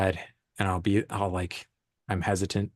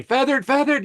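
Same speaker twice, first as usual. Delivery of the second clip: high, loud imitation of calling out an instruction; retold yelling; 6 dB louder than usual. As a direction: yell it out like you're directing on set. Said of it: "I was, like, yelling".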